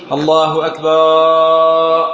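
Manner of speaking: slow chanted الله أكبر with a long added alif between the ba and ra of أكبر; extra alif before ra. Shown as a demonstration. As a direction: sing أكبر as akbaar, stretching an alif before the ra. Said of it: "بتجعل بين الباء والراء ألف".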